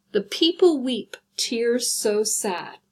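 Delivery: slow recited line; first reading before counting; reading a poem line. Shown as a demonstration. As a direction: read it out like a poem, tears so sad drawn out. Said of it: "see how I've created".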